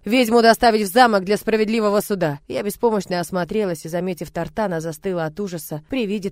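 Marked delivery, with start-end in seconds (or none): 0.1-2.4 firm, loud, detached command; dry order. Acted. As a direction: give the order without feeling. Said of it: "мужчина сухо приказал".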